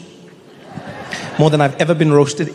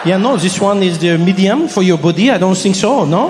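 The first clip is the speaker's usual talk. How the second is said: thick mock French accent; doubtful French clerk, questioning tag endings; French shop clerk. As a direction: size up the customer in a French accent. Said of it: "with the French".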